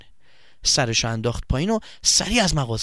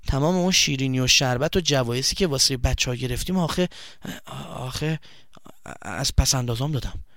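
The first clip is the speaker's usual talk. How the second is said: halting, mildly sheepish admission; embarrassed confession. Acted. Boy admits he spent his savings, mildly embarrassed. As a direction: confess reluctantly, stumbling a little.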